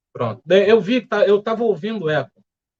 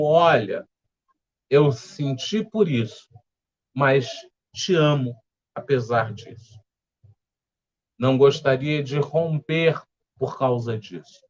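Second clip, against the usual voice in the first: gentle, unhurried heart-to-heart with pauses; mildly affectionate, measured delivery; loving, caring; 2 semitones lower than usual. Shown as a demonstration. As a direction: say it tenderly, taking your time. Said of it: "com muito amor, com muito carinho".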